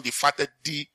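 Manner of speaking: "the" set apart and said as "thee"; pause, then lean on "the" as the one and only; stress on THE. Shown as a demonstration. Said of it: "it's not a fatted, it's only one".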